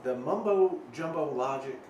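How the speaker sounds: measured exasperation, slowing at the end; mild frustration. Acted. Player baffled by the crystal's logic, mildly exasperated. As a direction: drag out the last words in frustration. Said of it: "is frustrating".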